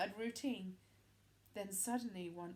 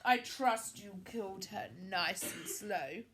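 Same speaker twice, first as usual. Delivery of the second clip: queen crying out; 8 dB louder, slower than usual. A narrator's reading. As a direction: relish the news with cruel delight. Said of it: "The Queen cried out".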